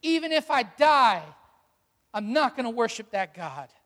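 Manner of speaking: preacher defying fear, fairly emphatic; defiant declaration. Acted. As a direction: stand up to fear out loud. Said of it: "look fear in the face and say".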